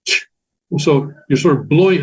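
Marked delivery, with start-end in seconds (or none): 0.1-0.3 CH as a puff of air; aspirated CH. Shown as a demonstration. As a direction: say CH like blowing out a candle. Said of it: "like a blowing out a candle".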